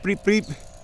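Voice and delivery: high little bleeps copying a bird; light mock bird call; imitating birdsong. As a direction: chirp it like a small bird. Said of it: "little birds going bleep".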